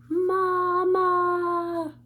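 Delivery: put-on high, loud baby llama holler; hollering for mama. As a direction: yell for mama from the bed. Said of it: "hollers loudly for his mama".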